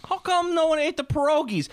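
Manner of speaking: a high mock of the puzzled relatives. The relatives at the end of the meal, high and puzzled. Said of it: "they're always like".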